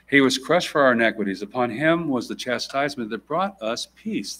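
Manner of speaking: measured formal Bible reading; scripture reading. Acted. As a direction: read the passage with weight. Reads Isaiah aloud.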